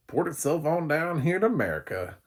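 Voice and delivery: high, loud hammed-up American accent. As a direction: boom it out in a big American accent. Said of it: "it's my American accent".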